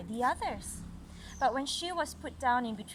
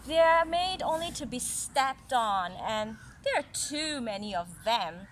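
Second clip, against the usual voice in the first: haughty apple branch; 3 dB louder than usual. Acted. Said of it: "exclaimed the apple branch".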